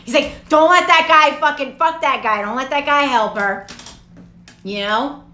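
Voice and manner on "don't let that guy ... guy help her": louder, higher mock command; hammed-up heavenly order; bossy angel order. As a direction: bark it like a pushy angel. Angel ordering in retold scene.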